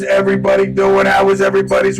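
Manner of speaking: robot voice. Real, not acted. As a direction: greet everyone through a robot voice filter. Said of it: "with robot voice on a Monday".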